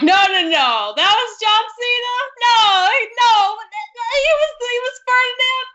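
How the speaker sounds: high, incredulous double-take; can't believe it's him, voice jumping up high; retold shock with a near-cry of disbelief; disbelieving surprise. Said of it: "I was like".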